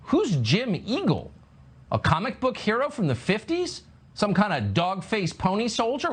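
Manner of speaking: incredulous questions swooping high; exaggerated puzzled disbelief; mock bafflement. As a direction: play baffled by what you just heard. Host feigns bafflement at clip.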